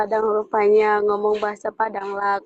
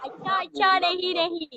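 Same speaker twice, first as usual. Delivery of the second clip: a light imitation of Indian-accented Hindi, pitched up at the end; mock Indian accent; 6 semitones higher, 3 dB quieter than usual. To a viewer claiming to be Indian, a mock Indian accent. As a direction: tease him with a playful Indian accent. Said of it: "Eh, orang India ya".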